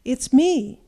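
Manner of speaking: loud, bold goat reply; biggest goat's shout. A narrator's reading. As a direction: announce yourself loudly as the big goat. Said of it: "shouted the biggest goat".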